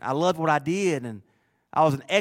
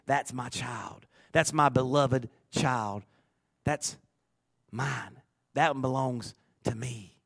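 put-on slow, softer, tender claiming of a child; tender voice of God; 4 dB quieter, slower than usual. A lightly voiced God naming a beloved child, tender. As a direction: say it like a father holding his own. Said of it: "Is it recorded as being".

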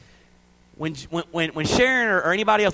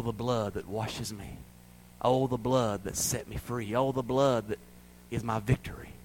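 reverent preaching; 4 semitones lower than usual. Real, not acted. Soft reverent testimony in sermon.

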